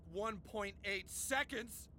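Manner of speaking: slow, drawn-out brag; low, teasingly slow reveal; smug mock-casual. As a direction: draw out each word to savour the boast. Feigns modesty while bragging to rival.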